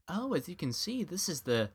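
high, chirpy unboxing host; man mocking a girl's unboxing video. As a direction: lightly play a cheerful video presenter. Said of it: "she was like".

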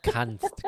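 "kannst" slowly set apart; "kannst" as a slow, pointed one-word caveat; stress on kannst. Shown as a demonstration. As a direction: draw out "kannst" for emphasis. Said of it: "Kannst ist die Betonung".

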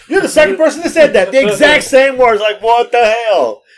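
laughing, high and loud, slowing at the end; real amused what-the-hell; laughing disbelief. Real, not acted.

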